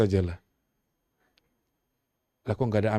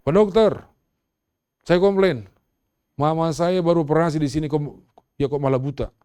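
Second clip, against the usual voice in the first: loud, high, furious demand at the doctor; angry complaint; 4 semitones higher, 5 dB louder than usual. Retold or imitated. A daughter shouting a complaint at the eye doctor, angry and loud. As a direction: storm in and complain at full volume. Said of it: "ada satu ibu dia marah-marah".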